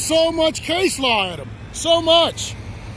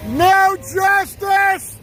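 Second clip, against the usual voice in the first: angry slow shout; 2 semitones higher, slower than usual. Real, not acted. Man showing police what vulgar sounds like, shouting angrily. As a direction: bellow each phrase slowly, with pauses between.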